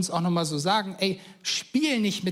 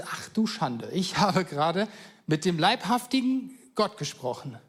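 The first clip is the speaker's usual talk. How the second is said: half-laughing at his own shock; shocked disbelief. Retold or imitated. Gideon shocked after God vanishes.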